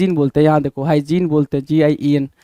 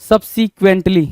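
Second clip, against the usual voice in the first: slow careful model; much slower than usual. Shown as a demonstration. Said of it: "subsequently होना चाहिए".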